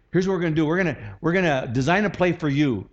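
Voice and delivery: confident pep talk to a player; brisk, assured coach laying out the play; encouraging coach. Acted. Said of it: "A coach would, would say".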